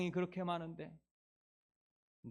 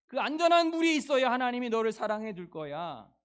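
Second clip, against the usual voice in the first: loud, demanding lecturing; Pharisees lecturing; 6 dB louder than usual. Acted. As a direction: lay down the rules like a stern scribe. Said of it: "이렇게 말합니다".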